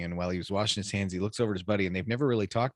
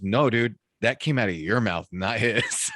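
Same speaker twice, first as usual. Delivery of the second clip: louder, laughing correction; laughing retort; 3 semitones higher, 5 dB louder, slower than usual. Retold or imitated. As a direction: deliver the punchline through a laugh. Partner corrects him, laughing.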